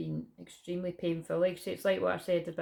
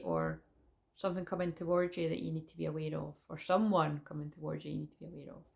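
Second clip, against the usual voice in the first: guided meditation. Acted. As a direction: lead the visualisation gently.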